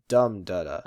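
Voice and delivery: "dum da da" with the first syllable stressed; a strong "dum", then two light "da da"; dactyl rhythm. Shown as a demonstration. Teacher demonstrates the dactyl, stress landing first. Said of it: "and the dactyl".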